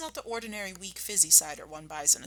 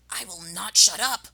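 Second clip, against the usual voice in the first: louder indignant rat voice; Rat shrieking; 7 dB louder than usual. Acted. Rat refusing to leave his spot, shrieking. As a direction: squeal back defiantly. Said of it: "shrieked Rat".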